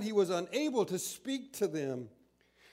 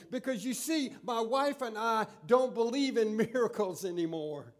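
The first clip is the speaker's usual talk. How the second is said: insistent demand; 4 semitones higher, 4 dB louder than usual. Acted. Zacharias demands proof from angel.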